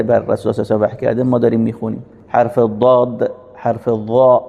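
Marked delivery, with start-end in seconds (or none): 2.3-3.3 slow, careful ضاد with the tongue pressed to the side of the teeth; correct emphatic dad. Shown as a demonstration. 3.5-4.4 ضا said heavy, with a full mouth; full-mouthed emphatic dad. Shown as a demonstration. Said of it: "که دهان پر بشه".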